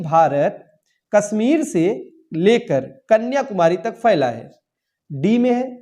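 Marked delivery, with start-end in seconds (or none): 0.0-4.5 careful teacher's model reading, slowed down; slow corrected sentence. Shown as a demonstration. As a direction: slowly read out the corrected sentence. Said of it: "यहाँ पे होना चाहिए". (धीमे, साफ़ सही वाक्य)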